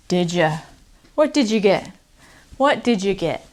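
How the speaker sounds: "did you" linked into "didja"; did ya blend. Shown as a demonstration. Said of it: "We turn into".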